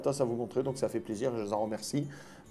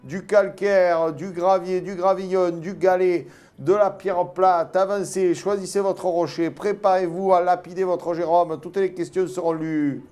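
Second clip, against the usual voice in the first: grand entrance announcement; 2 semitones higher than usual. Pretend. Mock auction crowd call.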